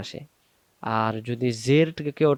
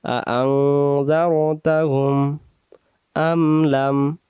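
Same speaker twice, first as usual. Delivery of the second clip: slow Quran recitation; slower than usual. Shown as a demonstration. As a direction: recite broken into words, slow. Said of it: "আপনারা ভেঙে ভেঙে". (ভেঙে ভেঙে ধীরে তেলাওয়াত)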